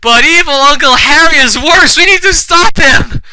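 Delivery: high, loud hammy rallying cry; mock urgency. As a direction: urge them on in overblown alarm. Character urges others in fanfic.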